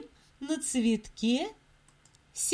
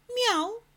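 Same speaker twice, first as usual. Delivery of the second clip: meow; 10 semitones higher than usual. Acted. Mysterious meow in story.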